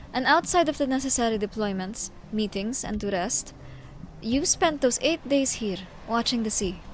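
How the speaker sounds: measured, solemn storyteller; formal, carefully phrased character monologue; dramatic story reading. Acted. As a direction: read it as a grave, deliberate tale. Reads character's lines and narration.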